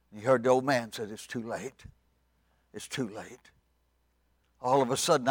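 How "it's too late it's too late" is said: hushed, resigned verdict; solemn refusal. Acted. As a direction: drop to a quiet, grave finality. Noah answers the pleas solemnly.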